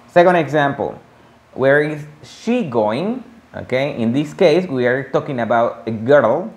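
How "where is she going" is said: slow model question. Shown as a demonstration. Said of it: "teacher models question".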